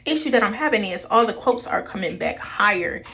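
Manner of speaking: muffled behind a face mask; through a face mask. Real, not acted. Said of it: "Excuse the mask on my face".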